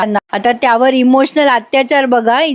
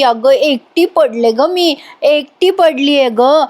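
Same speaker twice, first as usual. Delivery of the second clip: mock tearful drama; 3 semitones higher than usual. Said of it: "एवढा drama रंगवते".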